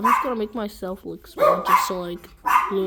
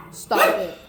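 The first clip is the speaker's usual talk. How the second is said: much higher, playful stop it; high playful scold. Real, not acted. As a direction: squeak it up at the dog. Telling off excited dog.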